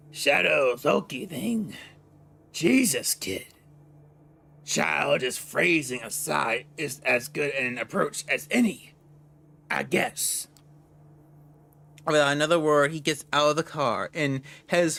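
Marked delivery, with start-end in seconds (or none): 0.1-10.5 a lightly voiced gruff mobster, mocking; gravelly partner. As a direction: scoff at the kid with a rasp. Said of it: "the gravely voice".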